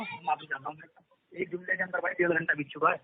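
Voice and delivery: breaking up on a bad phone line; glitchy robotic call. Real, not acted. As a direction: voice cutting in and out over the call. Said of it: "आवाज cut रही है आपकी बहुत".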